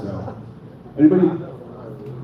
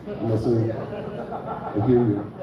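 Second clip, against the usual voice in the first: softer, slow mock reassurance; mock sincere; 7 semitones lower, 7 dB quieter, much slower than usual. Comedian to crowd after a flop, soft mock reassurance. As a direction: hush it like a fake therapist. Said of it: "mock sincere reassurance to crowd".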